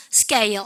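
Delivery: "스케일" pronounced 스께일; tense k after s. Shown as a demonstration. Teacher models the answer, tense k in "스케일". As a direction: say "스케일" with a hard, unaspirated k. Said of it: "쓰 다음에 프트크 발음은 뿌트크".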